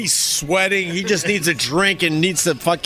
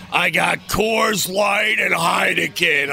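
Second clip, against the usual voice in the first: imitating the bartender; 2 semitones higher, slower than usual. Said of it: "He goes".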